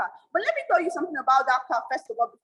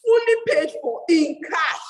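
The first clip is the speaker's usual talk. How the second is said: slow, louder, laughing through it; a laughing boast, each word slow; proud laughing boast; 2 semitones higher, 5 dB louder, slower than usual. Real, not acted. Young woman telling the crowd, laughing and slow. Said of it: "boasting about buying car".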